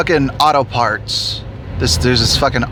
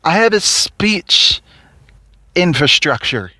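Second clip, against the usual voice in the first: slow and higher, proud of the wrong word; higher, stretched mock misspeaking; lightly imitating the coworker, slow and higher; 5 semitones higher than usual. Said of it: "she would say".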